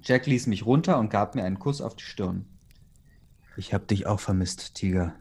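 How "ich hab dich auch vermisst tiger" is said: lower, tender line with a smile; smiling. A narrator's reading. Boyfriend to the girlfriend he missed, smiling. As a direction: lower the voice fondly, lightly smiling. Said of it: "sagte er lächelnd".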